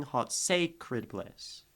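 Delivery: sacred slowly, weight on its first syllable; stress on first syllable of sacred. Shown as a demonstration. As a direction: stretch the start of sacred in "hot sacred bliss". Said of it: "say is, uh, that, say, crit".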